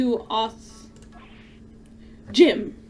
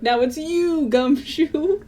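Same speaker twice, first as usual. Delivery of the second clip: imitating Edgeworth; 5 semitones higher, slower than usual. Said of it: "he's gonna be like".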